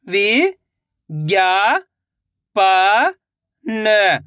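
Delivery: "वि-ज्ञा-पा-न" very slowly, each syllable held; sounding out slowly. Shown as a demonstration. Teacher showing children how to sound out a word. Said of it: "एक एक अक्षर का उच्चारण करके".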